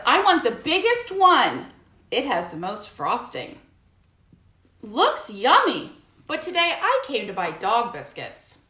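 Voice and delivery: Hamster's voice. Acted. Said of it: "Hamster says".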